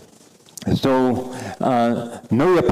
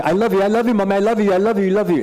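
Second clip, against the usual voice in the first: put-on higher, sing-song little child voice; childlike I love you; 8 semitones higher, much faster than usual. Teacher imitating a child telling Mommy I love you, lightly childlike. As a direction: play a small kid gushing to Mommy.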